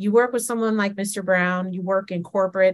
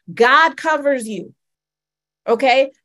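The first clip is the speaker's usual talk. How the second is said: preaching climax; 5 semitones higher, 5 dB louder than usual. Acted. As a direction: lift it up to the church.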